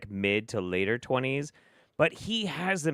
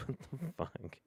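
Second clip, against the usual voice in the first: laughing disbelief; 2 semitones higher, 15 dB quieter than usual. Real, not acted.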